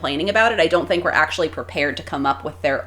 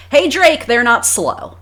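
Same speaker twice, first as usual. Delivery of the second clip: higher, louder quoted rap taunt; lightly voiced taunt, pitched up and punchy; a rapper; 5 semitones higher, 5 dB louder, slower than usual. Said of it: "as the great rapper would say".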